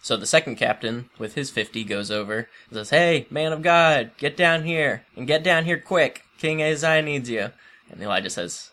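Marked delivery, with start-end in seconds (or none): 2.9-7.5 bossy captain's call. Retold or imitated. Second captain summoning Elijah.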